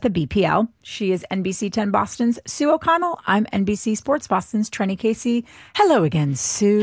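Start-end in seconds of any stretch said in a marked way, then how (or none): 5.8-6.8 put-on playful English-accented greeting. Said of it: "speak in an English accent".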